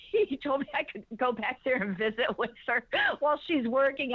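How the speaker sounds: hushed whispered aside. Real, not acted. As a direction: drop to a whisper. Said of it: "whispered aside".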